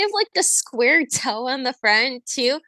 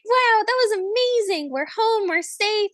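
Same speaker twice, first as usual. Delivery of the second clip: breathless relief; 6 semitones higher than usual. Retold or imitated.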